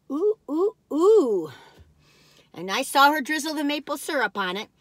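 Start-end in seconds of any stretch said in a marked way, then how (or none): 0.1-1.5 high delighted cooing; delighted ooh. Real, not acted. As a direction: coo with delight.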